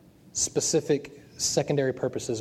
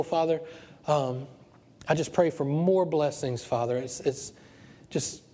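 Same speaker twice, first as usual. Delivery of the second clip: earnest pastor's prayer voice; closing prayer. Acted. Pastor praying over his standing congregation, earnest prayer. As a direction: pray over them, earnest and fervent.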